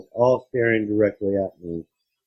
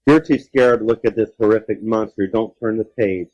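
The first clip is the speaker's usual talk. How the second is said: teasing. Shown as a demonstration. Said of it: "teasing listener, repeated louder".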